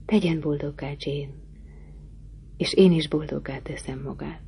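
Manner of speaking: low, soft murmur into her ear; deep murmur. Acted. Rochester murmurs his vow softly into Jane's ear. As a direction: breathe it close to her ear. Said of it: "legmélyebb hangján a fülembe súgta".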